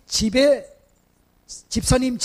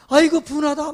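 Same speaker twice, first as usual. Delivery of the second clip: wailing demon; 5 semitones higher, 3 dB louder than usual. Retold or imitated. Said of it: "막 이래".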